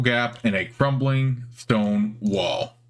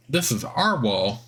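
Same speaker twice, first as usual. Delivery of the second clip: squeaky spider voice; slower than usual. Acted. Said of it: "It has a squeaky, high-pitched voice".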